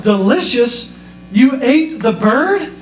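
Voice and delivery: rising disbelief, slowed on the bird; shocked son. Retold or imitated. Son hearing his mom ate the parrot, stunned and slow. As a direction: son can't believe what mom did. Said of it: "He was like".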